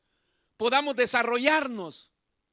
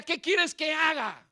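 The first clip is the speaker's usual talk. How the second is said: retold cry to God; 5 semitones higher, slower than usual. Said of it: "Así gritaba yo".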